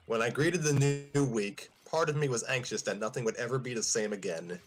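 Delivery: lightly read-aloud story voice; story narration. Acted. Opening the new chapter for the listeners, storytelling read.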